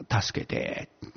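breathless whispered plea; a faint whispered help me; whispered cry for help. Retold or imitated. Whispering his desperate prayer alone. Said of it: "ていうのが本当の、うん、声だったですね".

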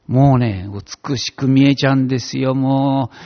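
normal talking voice

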